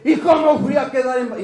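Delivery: quick, exaggerated wail of dismay; mock tearful lament. Preacher mimicking a pregnant woman's regret, mock-tearful and hurried. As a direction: imitate someone bemoaning her fate. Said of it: "Y llorando".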